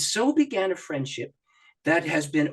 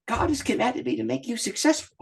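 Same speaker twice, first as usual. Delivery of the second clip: higher, laughing through the quoted words; laughing quote; 8 semitones higher than usual. Retold or imitated. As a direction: delight breaking into laughter. Quoting Maxie, laughing with joy.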